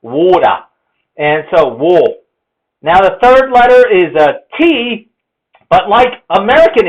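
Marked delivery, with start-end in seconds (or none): 0.0-0.6 Australian "water" as waw-duh; Australian pronunciation. Shown as a demonstration. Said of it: "pronounce it as a O". 1.7-2.0 wo with the A as an O; rounded Australian "wo"; Australian vowel sound. Shown as a demonstration. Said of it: "pronounce it as a O".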